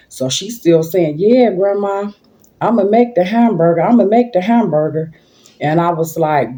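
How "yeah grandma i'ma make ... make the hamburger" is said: put-on higher, eager child voice, lightly done; lightly voiced eager granddaughter; granddaughter insisting. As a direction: mimic a kid begging to cook.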